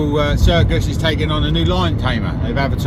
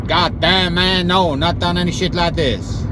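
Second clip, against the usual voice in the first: put-on American accent; 2 semitones higher than usual. Applicant admits no experience, mock American accent. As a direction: protest in a hammed-up American accent. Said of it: "that's the part of the American accent".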